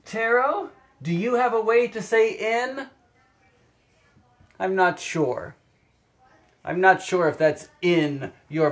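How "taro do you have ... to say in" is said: much higher, sing-song to the cat; high pet-talk voice. Real, not acted. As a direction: coax the cat gently. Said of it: "I have Taro the cat".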